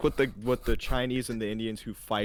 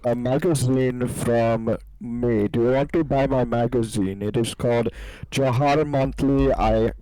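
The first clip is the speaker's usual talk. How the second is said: pretend caller. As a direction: play a cheesy telemarketer selling his own magazine. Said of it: "I am the caller".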